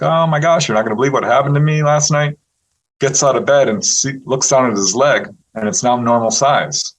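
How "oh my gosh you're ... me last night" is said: mildly excited retold news, higher pitch; lightly acted excitement; eager to tell. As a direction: act out someone bursting to share news. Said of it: "can't wait to tell his family".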